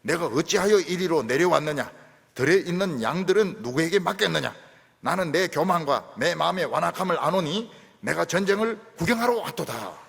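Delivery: loud scripture reading of an angry rebuke. Acted. Eliab scolds David for coming to the battle, loud reading. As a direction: read the brother's scolding with heat. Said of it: "노를 발하여 가로되".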